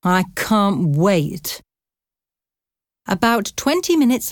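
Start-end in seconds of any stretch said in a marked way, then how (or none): 0.0-1.6 slow, dragged-out sarcasm; sarcastic. Acted. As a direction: drawl it with fake enthusiasm. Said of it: "Brian said sarcastically".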